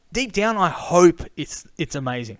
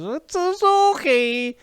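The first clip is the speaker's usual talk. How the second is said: much higher, slow, sneering drawl; snobby mock photographer; 11 semitones higher, 3 dB louder, much slower than usual. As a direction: stretch out Zorki like it's beneath you. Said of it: "He says".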